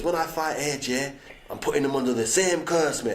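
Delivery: lightly put-on accent of the boxer; a hint of his accent, rolling into mate; mildly imitated boxer's accent with a flat threat; Tyson Fury accent. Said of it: "That's my man accent".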